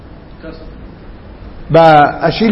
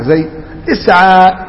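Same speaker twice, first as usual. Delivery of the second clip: نطق بطيء للمثال; slower than usual. Shown as a demonstration. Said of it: "معتل الآخر".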